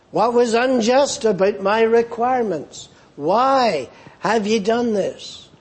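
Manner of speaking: a lightly voiced betrayed God pleading; wounded God. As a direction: ask each question as if personally hurt. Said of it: "It's as though God is saying".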